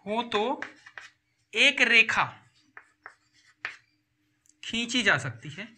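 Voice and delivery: word by word with long pauses; halting write-along delivery, phrase by phrase; dictating. Real, not acted. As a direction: dictate slowly while writing it out. Dictating answer while writing it out.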